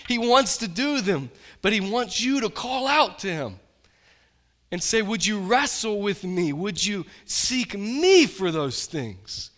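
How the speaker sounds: loud, high fervent preaching; preaching at full force. Real, not acted. Pastor urges his church to call on God, preaching loud. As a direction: rouse the congregation from the pulpit.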